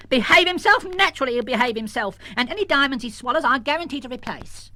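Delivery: high, loud affronted outburst. Acted. Missus Jones drawing herself up at Peter Stone, affronted. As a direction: bristle with offended pride. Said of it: "Missus Jones drew herself up".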